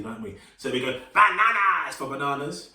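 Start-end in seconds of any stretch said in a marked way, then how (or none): 1.1-2.0 crazy banana voice. Shown as a demonstration. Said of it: "we start to go a bit crazy".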